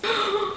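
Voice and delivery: soft shocked intake of breath; gasp. Acted. Grover discovers the last page is next, frightened gasp. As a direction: suck in air in alarm.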